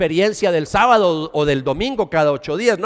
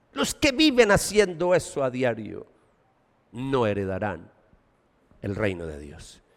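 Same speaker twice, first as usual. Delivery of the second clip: much lower and softer, almost a whisper; hushed warning; 7 semitones lower, 6 dB quieter than usual. Acted. Preacher echoing the warning, hushed and low. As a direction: let it sink in quietly. Same warning repeated softly.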